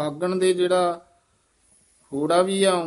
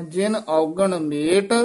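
ਜਿਨ ਔਗਣ ਮੇਟ, halting briefly on ਮੇਟ; brief pause after ਮੇਟ; 3 dB louder, slower than usual. Shown as a demonstration. Teacher marking for students a short halt after ਮੇਟ. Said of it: "ਇੱਥੇ ਠਮਕ".

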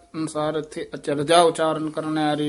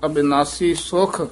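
ਅਬਿਨਾਸੀ ਸੁਖ closed off with a pause; rest after ਸੁਖ. Shown as a demonstration. Teacher showing the rest, stopping after ਸੁਖ. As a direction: come to a halt on ਸੁਖ. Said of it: "ਇੱਥੇ ਵਿਸਰਾਮ ਲਾਉਣਾ ਹੈ".

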